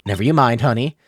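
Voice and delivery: put-on southern accent. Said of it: "southern accent this whole stream".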